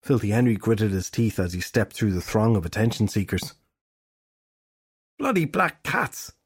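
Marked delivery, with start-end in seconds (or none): 5.2-6.3 annoyed muttered thought. A narrator's reading. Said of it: "the fairy detective thought".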